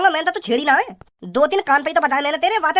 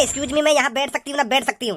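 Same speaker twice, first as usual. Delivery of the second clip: sneering singsong imitation of her; mocking imitation of the girl; mocking her ask; 3 semitones lower than usual. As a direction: parrot her request mockingly. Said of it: "हुई जा रही है कि".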